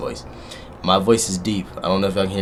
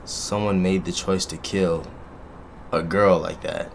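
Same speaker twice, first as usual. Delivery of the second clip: sad; 3 semitones lower, 9 dB quieter, slower than usual. Real, not acted. Mourning the gentle murdered girl.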